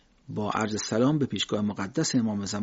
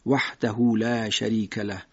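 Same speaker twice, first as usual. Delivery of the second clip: slow recitation; 2 semitones lower, slower than usual. Shown as a demonstration. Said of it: "بعد وحده ها تکرار بکنیم بهتره".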